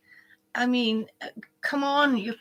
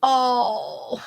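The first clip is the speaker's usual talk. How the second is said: tearful thanks; 2 semitones higher, 3 dB louder than usual. Real, not acted.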